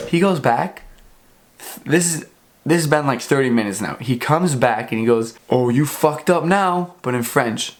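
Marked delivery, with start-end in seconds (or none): 5.5-6.9 lightly voiced cop, slow and higher; gloating cop. Cop returning to the stopped driver, lightly mocked gloating. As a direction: draw it out like a cop who has caught someone.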